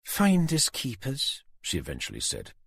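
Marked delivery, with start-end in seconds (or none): 0.0-1.4 slow, gloating singsong; malicious grin. A narrator's reading. Susan mocking Tanner over the stolen babies, grinning. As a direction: savor it with a wicked grin. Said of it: "malicious grin".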